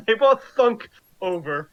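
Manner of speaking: laughing, lifted announcement; amused delight. Real, not acted. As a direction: say it through a laugh, tickled. Laughing as the enemies drop.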